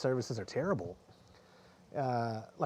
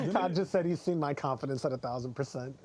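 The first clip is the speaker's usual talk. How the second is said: laughing. Real, not acted. Laughing at Todd's joke.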